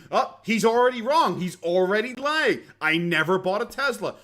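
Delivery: high, loud mock protest; lightly hammed-up outrage at the accusation; a hint of indignant Boogie; imitating Boogie. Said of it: "and he goes".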